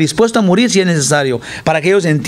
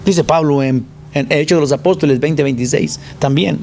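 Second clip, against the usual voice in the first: normal talking voice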